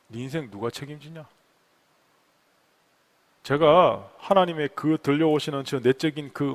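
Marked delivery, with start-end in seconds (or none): 0.1-1.3 low, hushed question; God's inner voice. Acted. God questioning the pastor about his life, low and quiet. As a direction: put it softly and gravely. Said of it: "이렇게 질문하십니다".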